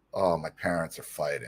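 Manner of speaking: gloomy, depressed, down-in-the-dumps glum delivery. Retelling a friend's reply on the way to football: imitating depressed Frankie. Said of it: "he's all depressed".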